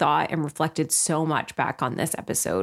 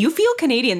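higher and louder, teasing delight; playful exclamation; 8 semitones higher, 6 dB louder, faster than usual. Retold or imitated. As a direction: tease them like you just spotted a Canadian. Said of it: "I'm like".

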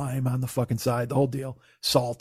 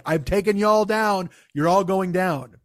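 slow, drawn-out taunt, slightly raised; mock yelling; 3 semitones higher than usual. The ace challenging the bar to darts, mock yelling. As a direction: imitate a cocky yell without full volume. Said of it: "He's yelling".

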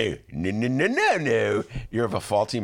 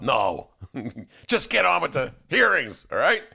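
gruff Clarence Thomas; 3 semitones higher than usual. Retold or imitated. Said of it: "Thomas was this gruff guy".

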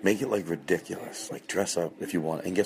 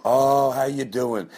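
high gushing hostess voice; over-sweet compliments; 6 semitones higher than usual. Retold or imitated. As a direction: flatter them to stop them eating. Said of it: "you go".

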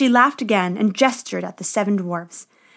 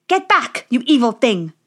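dwarves shouting; 4 dB louder than usual. A narrator's reading. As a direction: drive the witch away with a yell. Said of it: "It was the seven dwarves".

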